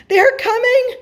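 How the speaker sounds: very high, loud excited cry; thrilled cry. A narrator's reading. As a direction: cry out as the long-awaited visitors approach. Moon sees the spaceships approaching.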